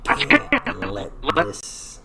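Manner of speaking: slow, breathy half-whisper to himself; hushed slow mouthing. Shown as a demonstration. Mouthing the line while animating.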